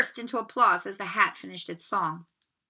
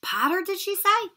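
surprised whispers; 10 semitones higher, 5 dB louder than usual. Acted. Hall whispers at his name.

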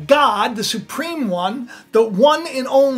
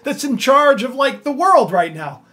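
king fuming, louder; angry king's thoughts; 3 semitones higher, 5 dB louder than usual. Retold or imitated. Angry king thinking about his trusted advisor, louder. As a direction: rant at the betrayal. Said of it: "he's angry and he's like thinking".

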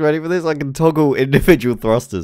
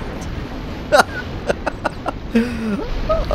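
high, soft wheezing laughing fit; helpless laughter; 10 semitones higher, 5 dB quieter than usual. Real, not acted. Player cracks up at the destruction, high helpless laughter. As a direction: laugh until it thins out high.

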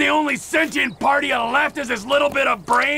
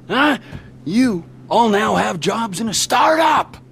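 mock host. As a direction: play the sinister host. Trevor welcoming captives menacingly.

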